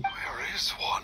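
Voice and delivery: slow confused whisper. Acted. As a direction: whisper it slowly, just waking. Ghost waking confused.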